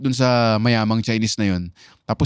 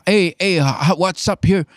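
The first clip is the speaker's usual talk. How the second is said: lightly voiced brash American comedian; American comic; 5 semitones higher than usual. Comedian imitating old American film comics, brash. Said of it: "film comedians nun, na parang".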